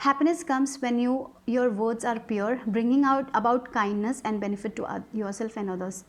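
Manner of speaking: slow, measured reading of the card text. Acted. Tarot reader reads the card's message to viewers, slow and measured. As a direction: read it out slowly like an oracle message.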